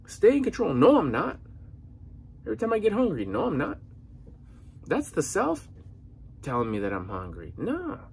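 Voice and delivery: fired up. Real, not acted. Fired-up pep talk on hunger.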